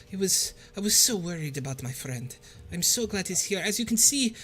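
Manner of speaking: lightly voiced grateful tribal elder; lizardfolk leader Sasana. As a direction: thank the heroes with relief, lightly voiced.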